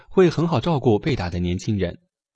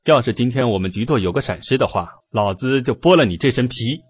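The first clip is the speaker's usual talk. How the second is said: cold fury; 3 dB louder than usual. Acted. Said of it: "冷冷地说道".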